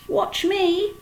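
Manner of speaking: high, loud show-off yell; boy yelling from the crate. A narrator's reading. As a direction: shout it to get attention. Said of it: "yelled Avery".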